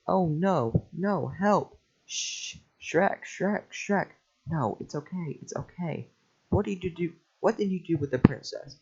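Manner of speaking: donkey terrified of the ogre; panicked. Acted. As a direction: cry out in a panic for Shrek.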